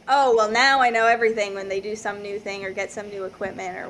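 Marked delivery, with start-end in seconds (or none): 0.1-1.5 loud mock know-it-all; cocky. Diver with some new equipment, mock cocky and loud. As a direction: imitate an ego puffed right back up. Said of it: "they'll get that humbling".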